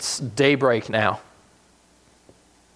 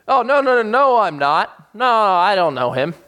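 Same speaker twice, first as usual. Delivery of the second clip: higher, louder, frantic no, no, no; panicked denial; 7 semitones higher, 4 dB louder than usual. Retold or imitated. Peter to the servant girl, panicked denial. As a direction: deny it in a rush of fear.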